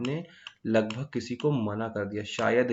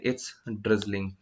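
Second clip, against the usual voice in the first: slow example sentence; 2 semitones lower, much slower than usual. Shown as a demonstration. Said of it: "बाहर बूंदाबांदी हो रही है".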